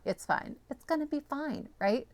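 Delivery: a soft unvoiced self-reassurance; whispered to self. Real, not acted. Crafter reassuring herself after trimming everything down, whispered. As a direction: breathe it out to calm yourself.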